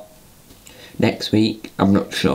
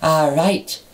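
high silly puppet voice; odd put-on voice; 6 semitones higher than usual. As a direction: talk like a toy come to life. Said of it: "what's wrong with your voice".

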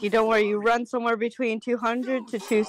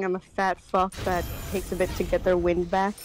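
panting between words; out of breath; 2 semitones lower than usual. Real, not acted. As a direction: talk while catching your breath. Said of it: "Sorry for my heavy breathing".

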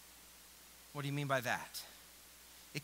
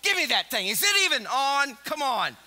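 bossy Peter, louder; 3 semitones higher, 5 dB louder than usual. Acted. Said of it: "Peter's probably".

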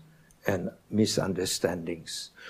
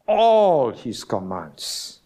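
"all" drawn out and slow, leaning on it; stress on all; 4 dB louder, much slower than usual. Shown as a demonstration. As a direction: linger on "all" to stress every command. Reading the verse with emphasis.

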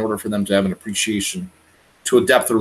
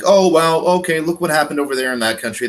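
raised pitch, mildly hammed-up wow; mock casual interest; 6 semitones higher, 3 dB louder than usual. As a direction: act like an idly impressed viewer. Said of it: "it's just like".

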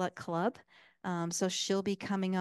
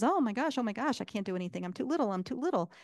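lightly voiced squirrel, higher and quick; panicky squirrel; 3 semitones higher, faster than usual. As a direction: play a mildly flustered little squirrel, rushing the words. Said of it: "the squirrel runs out and says".

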